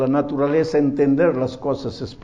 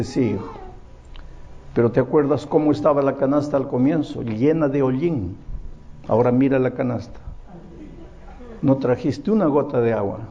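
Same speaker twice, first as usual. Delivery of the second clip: lower, softer, a hint of an old woman; gentle grandmother; 5 semitones lower, 3 dB quieter than usual. Grandmother patiently teaching her grandson, soft and gentle. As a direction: explain it gently to the boy.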